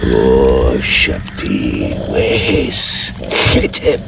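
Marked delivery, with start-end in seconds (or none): 0.0-1.9 frantic invocation. Acted. Desperate plea to his god.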